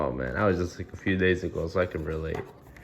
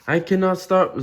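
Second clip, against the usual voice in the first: high worried elephant voice; 9 semitones higher, 3 dB louder than usual. Acted. Gerald voiced, sneezing fit.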